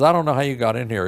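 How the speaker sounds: loud, high, rapid retold rebuff; rough boss. Manager rebuffing a kid who walked in, rough. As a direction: imitate a boss rattling off a dismissal. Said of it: "he was pretty rough with me".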